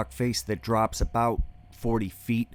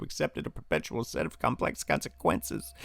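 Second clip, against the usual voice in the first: whispered; 5 dB quieter than usual. Acted. Whispered phrase.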